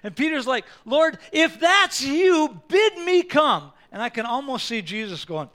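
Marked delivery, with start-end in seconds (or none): 0.8-3.7 high, loud and slow, eager begging; a disciple pleading to his Lord on the water, loud and eager; excited plea. Acted. Peter eagerly calls to Jesus.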